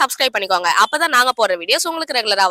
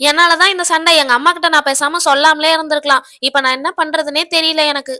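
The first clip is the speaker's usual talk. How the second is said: put-on lightly higher voice of an upset little girl; a small girl telling what went wrong, a touch higher; little girl owning up to her friend, a bit higher; young girl; 4 semitones higher, 4 dB louder than usual. Daughter's voice again.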